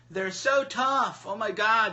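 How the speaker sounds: slow sarcastic jab at the tough guys. Acted. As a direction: sneer it slowly, stretching "so". Mocking tough guys begging.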